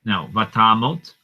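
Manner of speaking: "Vatamot" with an O sound, stress on ta; teacher modeling "Vatamot"; Vatamot pronunciation. Shown as a demonstration. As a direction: say "Vatamot": va-TA-mot, round O. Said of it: "notice I say tamot with an O sound".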